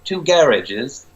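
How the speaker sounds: Scottish accent, hammed up for laughs. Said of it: "Stick with that accent".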